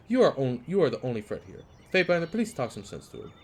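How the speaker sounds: a touch of outraged merchant; accusing merchant. Acted. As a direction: point and accuse.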